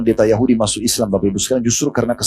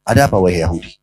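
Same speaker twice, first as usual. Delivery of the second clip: very calm; 6 semitones lower than usual. Retold or imitated. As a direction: lower and calm, while being choked. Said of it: "dengan sangat tenang".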